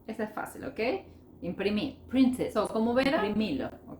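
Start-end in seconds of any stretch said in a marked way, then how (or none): 2.1-2.5 "Print it" said as one word; linked words. Shown as a demonstration. Teacher repeating an easy example, words linked. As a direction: join "Print" straight into "it". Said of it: "esas son linkings".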